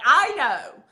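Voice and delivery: laughing agreement. Retold or imitated. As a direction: laugh along, delighted.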